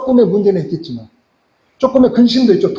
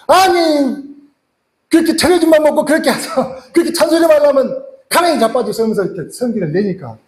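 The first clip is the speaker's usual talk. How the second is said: wife snapping back, higher pitch; angry wife; 6 semitones higher than usual. Retold or imitated. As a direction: retort with rising heat, half-acted. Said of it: "권사님이 갑자기 열이 나쁜 거죠".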